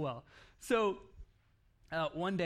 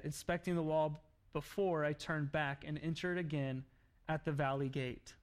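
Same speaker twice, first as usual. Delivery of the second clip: scripture reading. Acted. Preacher reading Nehemiah aloud to church, measured. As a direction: read the passage to the congregation. Reads Nehemiah chapter two.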